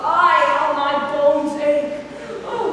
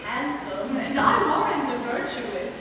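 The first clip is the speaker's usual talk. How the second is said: teasing through laughter; 3 dB quieter than usual. Acted. Nurse teasing Juliet about Romeo.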